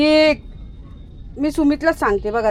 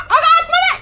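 surprised cry; 5 dB louder than usual. Real, not acted. Dog darts back inside.

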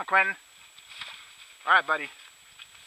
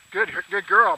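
much higher, gushing praise; excited dog praise; 9 dB louder than usual. Real, not acted. Hunter praising Daisy for the retrieve, excited and high. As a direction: squeal praise at the good dog.

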